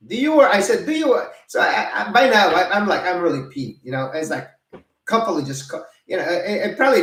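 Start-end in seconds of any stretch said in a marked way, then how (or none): 0.1-1.3 high, loud indignant challenge; louder, higher mock outrage; retold angry retort. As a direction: snap back at a busybody. Retold confrontation with woman.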